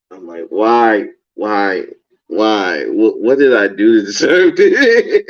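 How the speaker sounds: giggling mock despair; laughing what did I do; laughing disbelief. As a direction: laugh through the question.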